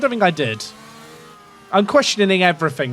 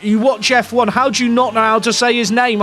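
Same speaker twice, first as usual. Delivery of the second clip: higher, incredulous mock question; indignant commenter; 5 semitones higher, 3 dB louder than usual. Streamer retelling a commenter's challenge, mock-incredulous. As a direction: imitate a baffled fan challenging you. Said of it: "The guy was like".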